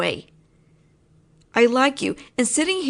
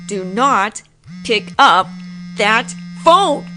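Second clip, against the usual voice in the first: firm command; 3 semitones lower, 4 dB louder, slower than usual. Acted. Forbids answering ex's call.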